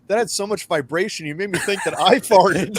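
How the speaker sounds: high, laughing disbelief; laughing girlfriend quote. Retold or imitated. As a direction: laugh through the words, amazed.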